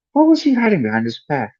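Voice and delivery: thoughtful, curious Hermione line. A narrator's reading. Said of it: "said Hermione thoughtfully".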